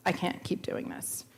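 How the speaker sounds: a near-silent breath of a prayer; desperate whispered plea. Retold or imitated. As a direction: let the plea fall to a whisper.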